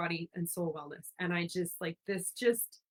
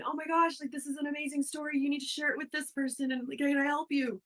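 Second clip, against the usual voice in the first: eager enthusiasm; 6 semitones higher than usual. Retold or imitated. Retells her eager curious self.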